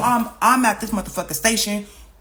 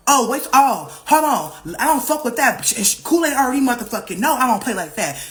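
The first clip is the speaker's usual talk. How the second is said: higher-pitched, indignant sputter; retold outrage; 4 semitones higher, 3 dB louder than usual. Friend reacting on the phone, retold outrage. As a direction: cut in, indignant and ready to step in.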